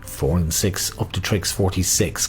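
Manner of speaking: sing-song number calling; bingo caller. Acted. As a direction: lilt each number like a bingo hall.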